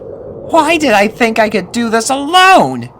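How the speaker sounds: put-on high-pitched boy pony, bossy; young colt voice. A narrator's reading. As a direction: play a cocky young colt. Snips alone, despairing.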